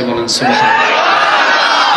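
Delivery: slow, drawn-out call to the crowd; preacher's call. Real, not acted. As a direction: rouse the crowd to respond. Preacher calls for response.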